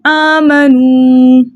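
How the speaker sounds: आमनू slowly recited, final oo held steady; stop with long vowel. Shown as a demonstration. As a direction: pause on आमनू after stretching its oo. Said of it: "हम कैसे पढ़ेंगे".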